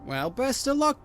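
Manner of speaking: hag voice. Acted. Hag dismisses him.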